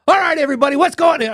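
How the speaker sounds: mock radio host greeting the crowd; obnoxious sports-guy voice. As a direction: blast it like a hyped sports announcer opening a show. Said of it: "when he went into mic mode".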